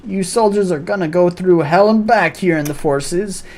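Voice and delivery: mock-serious military pep talk; hammed-up drill commander. Commander lecturing nervous recruits, hammed up.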